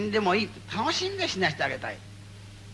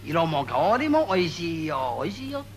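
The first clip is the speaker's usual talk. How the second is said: savoring; 2 semitones lower, slower than usual. Shown as a demonstration. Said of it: "かみしめるようにあげろ".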